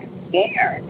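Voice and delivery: small unvoiced whisper of a frightened kid; scared child whisper. Son whispering to mom at night, frightened hush. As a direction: breathe it like a scared little boy.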